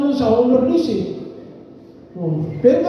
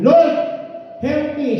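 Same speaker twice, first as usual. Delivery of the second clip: pleading woman; 5 semitones higher, slower than usual. Acted. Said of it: "she said".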